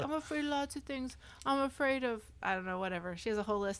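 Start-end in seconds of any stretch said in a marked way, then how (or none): 0.0-2.2 sweet lispy voice. Retold or imitated. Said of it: "mildly lispy, like, really sweet".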